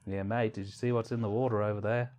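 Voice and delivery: put-on a light Australian accent, laid-back; playful mock Australian bloke. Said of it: "That was an interesting accent".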